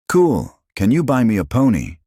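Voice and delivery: put-on high, loud delighted child; thrilled little girl. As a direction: squeal it with glee. Thrilled child asks for pony.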